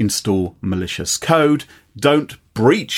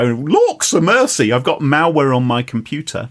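mock dismay. Host voices a user finding malware, mock dismay. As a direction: play up the comic alarm. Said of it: "you may go".

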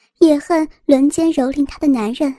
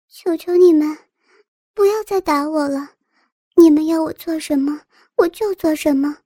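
sweet, coaxing plea; cutesy whiny pleading; 3 semitones higher than usual. Acted. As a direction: beg in a sugary, babyish voice. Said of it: "林燕故意娇滴滴地说道。".

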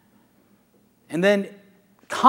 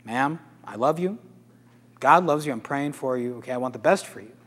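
calm, reassuring voice; 3 semitones lower, 3 dB quieter than usual. Retold or imitated. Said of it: "Let's be calm".

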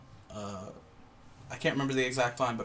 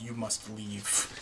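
slow, soft, grave command; imitated solemn order; 3 semitones lower, 11 dB quieter, much slower than usual. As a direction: act out a hushed, weighty order. Voicing the Father's solemn order.

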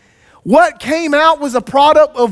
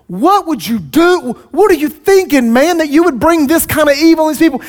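higher, heated rebuke with a rushing finish; ticked off; 5 semitones higher than usual. Retold or imitated. Moses angrily confronting Aaron about the people's sin. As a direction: scold him like a furious leader. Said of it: "Moses is really ticked off".

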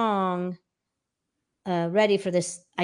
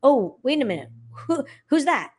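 puzzled listener; 4 semitones higher than usual. Retold or imitated. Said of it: "you start sounding unlike your personality".

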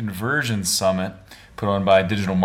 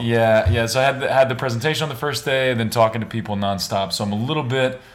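hoarse, raspy voice after days of talking; worn-out raspy voice. Real, not acted. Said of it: "I got, like, that raspy voice".

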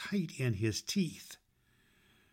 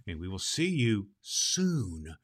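whisper; 4 semitones lower, 3 dB quieter than usual. Acted. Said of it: "whispered aside".

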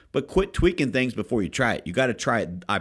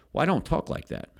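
higher, put-on voice for the agent; mimicking the agent; 7 semitones higher than usual. Manager retelling agent's excuse, lightly voiced higher. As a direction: play the new agent, a bit defensive.

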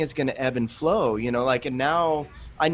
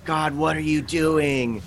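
slower, exasperated plea to God; frustrated demand; 3 semitones higher, slower than usual. Retold or imitated. College student fed up with God, exasperated. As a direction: throw up your hands and demand answers. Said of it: "As opposed to saying".

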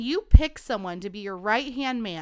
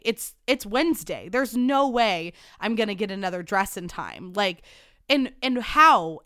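angry; 4 dB louder than usual. Retold or imitated. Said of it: "Tequila Ashley".

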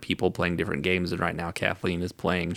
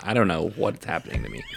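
laughing; faster than usual. Real, not acted. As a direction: laugh through the words. Reacting to the alien voice.

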